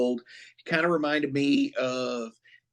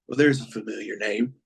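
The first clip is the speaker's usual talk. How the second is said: quick, lower, offhand quote; nonchalant; 4 semitones lower, faster than usual. Retold or imitated. Villain hearing who the prisoner is, nonchalant. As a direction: toss it off casually, as if unimpressed. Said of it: "Just so nonchalant".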